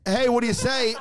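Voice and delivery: mild mock yell, slightly high; toned-down imitation of a holler; retold scream. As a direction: quote a shout without really shouting. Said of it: "The person that just screamed".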